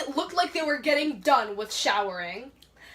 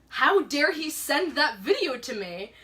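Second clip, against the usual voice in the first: retold indignation, a bit raised; indignant retelling, slightly higher; angry; 4 semitones higher, 4 dB louder than usual. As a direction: protest in mild mock outrage. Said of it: "I was so angry".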